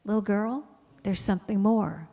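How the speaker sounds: a hint of a different, gentle inner voice. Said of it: "that voice that all through my entire life has said".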